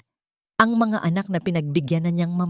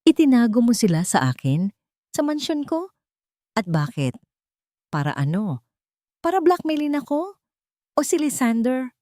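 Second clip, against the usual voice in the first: sharp, higher accusatory questions; accusing anger; 7 semitones higher than usual. A narrator's reading. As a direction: interrogate her, anger barely held. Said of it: "puno ng kontroladong galit".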